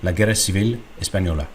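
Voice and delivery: la guerra civil española said the way the voice reads it without a period, ending unfinished; imitating the unpunctuated reading. Shown as a demonstration. Showing viewers how the voice sounds without a period, mock computer reading. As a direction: copy the software reading española with no full stop after it. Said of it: "Without the period".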